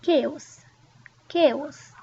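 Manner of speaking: chaos said as "kyay-os", a light Y glide before the vowel; chaos, with a slight Y sound after the K. Shown as a demonstration. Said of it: "We almost add a Y sound".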